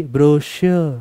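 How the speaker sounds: ब्रोशियो said slowly; ब्रोशियो, careful slow demo; slow pronunciation demo. Shown as a demonstration. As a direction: draw out ब्रोशियो syllable by syllable like a slow-motion voice. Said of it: "तो वो धीरे बोलेगा, जैसे कि".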